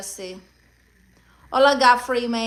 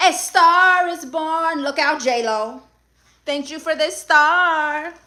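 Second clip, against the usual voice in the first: dramatic star announcement; 3 semitones higher, slower than usual. Acted. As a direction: announce it like a red-carpet debut. Streamer celebrates a gifted star.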